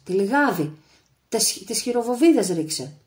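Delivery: loud, high battle commands; shouted orders. A narrator's reading. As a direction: bark orders over gunfire. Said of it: "φώναζε ο Άγρας". (φωναχτές διαταγές στη μάχη)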